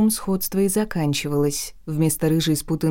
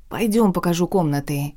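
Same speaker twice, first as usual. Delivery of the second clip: ordinary delivery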